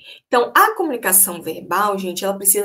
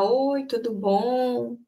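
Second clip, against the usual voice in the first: friendly greeting; 3 semitones higher, much slower than usual. Shown as a demonstration.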